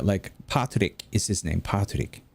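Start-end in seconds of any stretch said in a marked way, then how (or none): 0.5-1.0 Patrick as "Pa-to-rikku", open first vowel; Japanese pronunciation. Shown as a demonstration. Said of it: "trying to tell him how to". 1.6-2.2 Patrick as "Pa-to-rikku"; Japanese pronunciation. Shown as a demonstration. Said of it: "trying to tell him how to".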